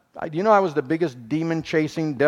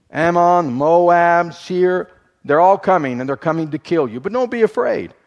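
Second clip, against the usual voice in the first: calling out the enemy armies, louder and higher; preaching loud; 3 semitones higher, 5 dB louder than usual. Acted. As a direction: build the threat, then the reassurance.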